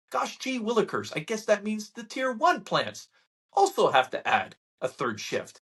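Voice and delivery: high mock-naive "gee willikers"; sarcastic gee whiz. Mocking the media's blindness, high sarcasm. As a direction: play dumb with sarcasm.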